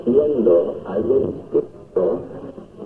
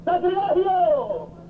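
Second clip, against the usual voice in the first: mock horror; much slower than usual. Preacher cries out.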